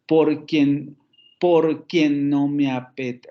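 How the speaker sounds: "Por quien no me apete-" measured slowly, weight on QUIEN; slow, deliberate verse scanning of "por QUIEN"; stress pattern demo. Shown as a demonstration. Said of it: "volvemos a ver el patrón de los acentos".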